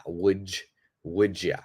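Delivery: "would ya" said as wouldja, D and Y merged; slow demonstration of the blend. Shown as a demonstration. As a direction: soften "would ya" into one linked word. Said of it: "kind of the D J".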